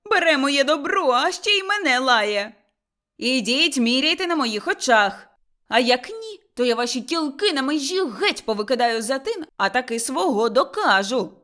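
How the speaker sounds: loud, threatening tirade; angry shouting. Acted. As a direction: shout your threat at the in-laws. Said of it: "кричала Мотря". (гнівний крик із погрозою)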